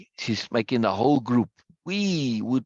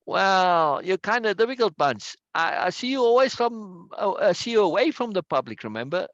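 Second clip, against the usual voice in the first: sly; 6 semitones higher than usual. A narrator's reading. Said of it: "Ursula said slyly".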